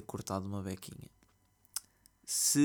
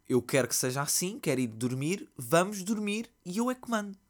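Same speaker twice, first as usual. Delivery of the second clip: put-on higher, louder whiny toddler demand; bratty tantrum; 7 semitones higher, 4 dB louder than usual. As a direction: whine like a spoiled toddler. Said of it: "birra mesmo do tipo".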